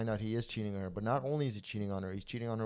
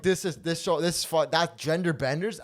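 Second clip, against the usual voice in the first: incredulous repeat; 5 semitones higher, 5 dB louder than usual. Retold or imitated. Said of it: "And I'm like".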